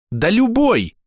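high, exasperated little voice; chirping cricket, impatient. A narrator's reading.

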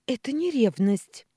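high, loud cry of injured protest; hurt exclamation. Acted. Ksyusha protests to her father, hurt and loud. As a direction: fling it back, stung. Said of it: "воскликнула Ксюша с обидой".

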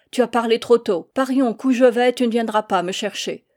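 lancé haut et fort, en défi; répliquer fièrement à l'ennemi; s'écrier défiant. Acted. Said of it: "s'écria mon père". (le père défie Jean Karadec en s'écriant)

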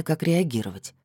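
usual speaking voice

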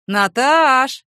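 loud call through the door. Acted. Neighbour calling her out to guests, loud. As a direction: call her from across the flat. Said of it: "громко позвал".

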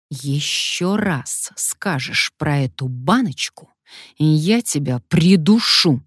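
whispered menacing hiss; man hissing a threat at Alyona. Acted. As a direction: hiss the threat through teeth. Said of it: "прошипел мужчина".

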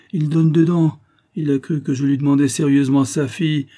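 the captain bragging to his soldier, loud and gleeful; gloating. Acted. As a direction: crow over the fooled Dutchman. Captain gloats over fooled Dutchman.

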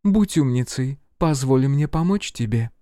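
coaxing woman agent. A narrator's reading.

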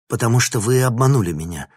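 loud, fast indignant outburst; indignant exclamation. A narrator's reading. Professor Vinnik accuses his boss, loud and indignant. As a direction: blurt it out, outraged and quick. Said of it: "возмущённо воскликнул Винник".

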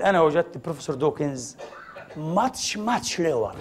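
retold softly, a little embarrassed; half-hearted hush, as if ashamed to say it; mild imitation of a shy scientist; shy, quiet report. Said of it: "وقالها بخجل".

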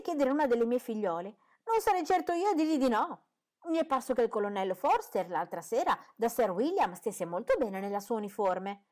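a silly mother swooning over officers; gushing mother. A narrator's reading.

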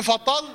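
quick example of فطل with dark ل; wrong heavy lam. Shown as a demonstration. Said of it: "بقت غلط".

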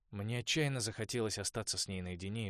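ordinary delivery, nothing marked

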